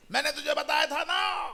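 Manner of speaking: high-pitched scolding shout; hammed-up, high domestic outburst; acted parental yelling. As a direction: yell like a parent the whole street hears. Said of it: "इतनी चिल्लाते जोर जोर से".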